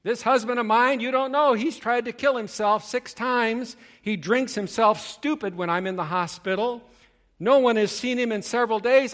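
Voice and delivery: high, loud, frantic pleading wife voice. Retold or imitated. Preacher voicing the anxious hospital patient, high and frantic. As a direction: imitate a panicked wife pouring out her fears.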